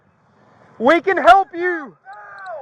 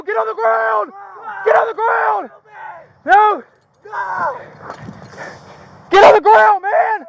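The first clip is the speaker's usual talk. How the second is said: shouting command; 3 semitones higher than usual. Real, not acted. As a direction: shout him down to the ground. Struggle to subdue suspect.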